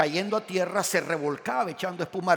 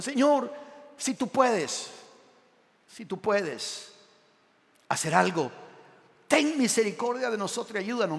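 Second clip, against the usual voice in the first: doubtful pleading prayer; 4 semitones higher than usual. Retold or imitated. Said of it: "que ha hecho ese tipo de oración".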